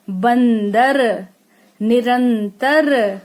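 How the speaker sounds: बंदर, निरंतर very slow, each nasal stretched; slow nasal demo. Shown as a demonstration. Teacher listing anusvara words for children, very slow. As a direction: say बंदर and निरंतर slowly through the nose. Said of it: "इसमें नाक का इस्तेमाल होता है".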